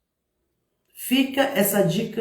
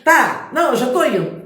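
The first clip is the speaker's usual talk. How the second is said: brushing off; 3 semitones higher, 5 dB louder than usual. Acted. Person brushing you off.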